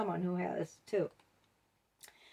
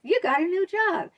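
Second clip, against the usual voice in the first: backhanded compliment; 4 semitones higher, 4 dB louder than usual. Retold or imitated. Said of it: "They said".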